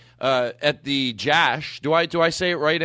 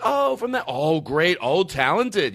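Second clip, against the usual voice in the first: gushing praise; 5 semitones higher, slower than usual. Retold or imitated. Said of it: "It's all positive".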